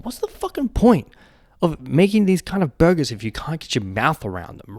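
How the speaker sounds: high, loud, fed-up rant; exasperated outburst. Real, not acted. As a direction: blow up at the silly stacked burger. Ranting at huge burgers.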